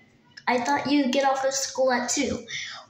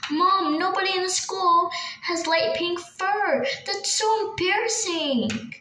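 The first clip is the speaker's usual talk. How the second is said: slow, higher whining complaint; whiny protest; 6 semitones higher, slower than usual. Acted. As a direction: whine at mom about the embarrassing color. Daughter protesting the pink fur.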